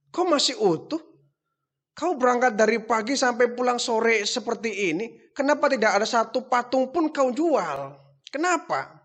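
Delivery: father scolding his son over the unsold idols. Acted. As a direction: press the son on why nothing sold. Father confronts unsold statues.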